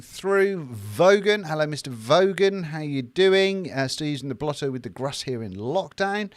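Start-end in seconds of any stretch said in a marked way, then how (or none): none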